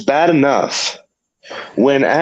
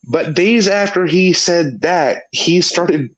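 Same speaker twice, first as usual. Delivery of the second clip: talking with a wet mouth full; 5 semitones higher, slower than usual. Real, not acted. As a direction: speak through a mouthful of saliva. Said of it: "Sorry, I've got a mess in my mouth".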